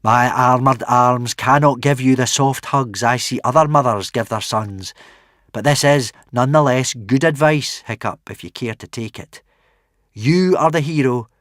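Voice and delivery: firm, proud warrior woman; stern warrior mother. Acted. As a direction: speak like a hard warrior queen. Narrator voices Valhalla Rama.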